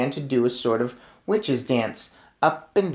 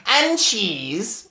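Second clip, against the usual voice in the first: shout; 6 semitones higher, 3 dB louder than usual. Acted. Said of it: "shouted the Grand High Witch".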